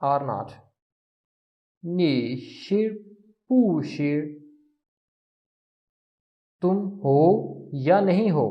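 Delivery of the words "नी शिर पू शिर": नी शिर drawn out slowly, then पू शिर; slow Mandarin. Shown as a demonstration. Teacher repeating the phrase slowly before translating it.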